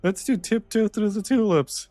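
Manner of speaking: high, sloppy mock drunk voice; drunk guy. Mimicking the drunk guy at karaoke, high mock slur. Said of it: "some drunk guy was like".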